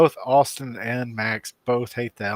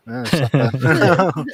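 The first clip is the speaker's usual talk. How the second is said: elf voice; 6 dB louder, slower than usual. Shown as a demonstration. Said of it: "I think I was doing something like this".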